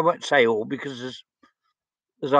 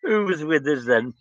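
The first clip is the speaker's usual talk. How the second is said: excited recognition; 8 semitones higher, slower than usual. Real, not acted. Excited on recognising an old friend.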